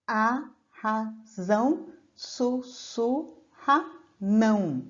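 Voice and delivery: slowly spelled-out verse; slow counting demo. Shown as a demonstration. Teacher counts syllables aloud for students, slowly. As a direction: lay out each syllable slowly. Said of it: "a gente não vai contar".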